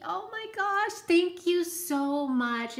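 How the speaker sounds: high, slow thank-you; touched gasp of thanks. Real, not acted. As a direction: let it catch in your throat with joy. Moved by a friend's card.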